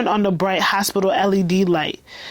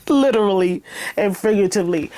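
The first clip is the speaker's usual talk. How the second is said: laughing; faster than usual. Real, not acted. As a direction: laugh while saying it. Laughs at own joke.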